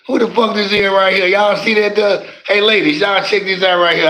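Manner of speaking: excited streamer greeting; excited call-out. Real, not acted. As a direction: hype up the newcomer to the chat. Calling out a newcomer in chat.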